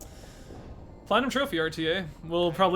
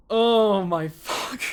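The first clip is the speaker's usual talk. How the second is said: very slow, loud disbelief; stunned joy; 4 semitones higher, 5 dB louder, much slower than usual. Real, not acted. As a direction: let it out slowly, overwhelmed. Overjoyed after record run.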